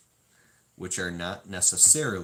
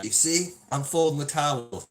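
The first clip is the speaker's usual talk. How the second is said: mock eager helper; 6 semitones higher, 6 dB louder than usual.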